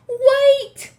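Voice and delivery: high loud witch shout. Acted. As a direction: shout to halt the room. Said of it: "she shouted again".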